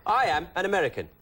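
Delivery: light Cockney-tinged Michael Caine voice; Michael Caine impression. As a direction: do Caine playing an American, lightly. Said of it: "he talked like that".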